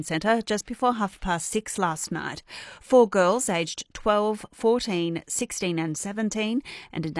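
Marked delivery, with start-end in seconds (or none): none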